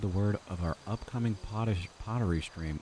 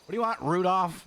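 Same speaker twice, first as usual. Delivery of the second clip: challenging the deer, louder; confrontational; 7 semitones higher, 4 dB louder than usual. Real, not acted. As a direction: square up and call it out.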